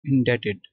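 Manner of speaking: इंडेटेड with no b sound; silent b. Shown as a demonstration. Teacher repeating the word after the rule, इंडेटेड with silent b. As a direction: leave the b out when saying इंडेटेड. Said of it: "ये silent है".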